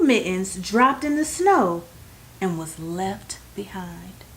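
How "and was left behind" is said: whispered, breathy aside; hushed whisper. A narrator's reading. The narrator whispers as the mitten is lost in the snow. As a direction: drop to a secret whisper.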